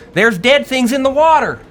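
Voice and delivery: piercing, very high, loud cry. Game narrator voices a cry from the depths to the players, Queenie's voice crying out. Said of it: "You hear her scree- speak out".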